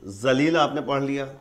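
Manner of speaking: ذلیل begun with the letter zal, a voiced z-like sound; zal pronunciation. Shown as a demonstration. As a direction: read ذلیل as spelt with zal. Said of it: "زال سے".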